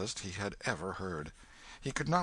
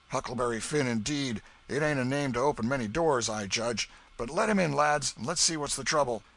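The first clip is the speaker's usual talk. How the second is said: put-on old man voice; 5 semitones higher, 5 dB louder than usual.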